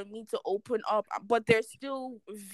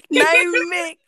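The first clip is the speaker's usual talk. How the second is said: Nigerian Pidgin; 7 semitones higher, 9 dB louder than usual. Real, not acted. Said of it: "I'm going to say it in pidgin".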